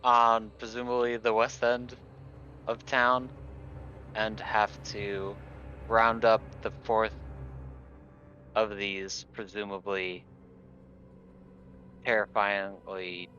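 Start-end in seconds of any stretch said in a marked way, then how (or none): none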